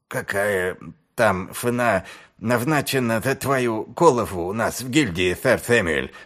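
"сэр Сэмюэль" with f for s, as "фэр Фэмюэль"; lisping speech. Acted. Niz speaks with hurt nose.

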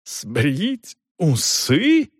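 stunned, very slow hoarse question; hoarse whisper. A narrator's reading. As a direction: squeeze the words out hoarsely, drawn way out. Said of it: "наконец выдавил он хриплым шёпотом".

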